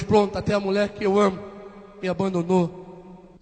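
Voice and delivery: low, soft grumble slowing at the end; murmúrio de queixa. Retold or imitated. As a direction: retell a self-pitying murmur, quiet and low. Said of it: "eu murmurei mais uma vez". (queixa murmurada, baixa e grave)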